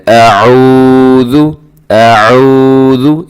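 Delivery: अऊज़ु with the ऊ drawn out long. Shown as a demonstration. Teacher lengthening the waw for students. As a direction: stretch the ऊ in अऊज़ु. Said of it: "एक हर्फ को थोड़ा सा लंबा".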